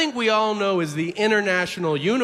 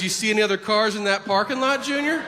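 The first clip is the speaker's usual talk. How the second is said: fast, higher, rising to the last word; acted condescending comeback; 4 semitones higher, faster than usual. Store man answering the naive customer, mock condescending question. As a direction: put the naive kid in his place, mockingly.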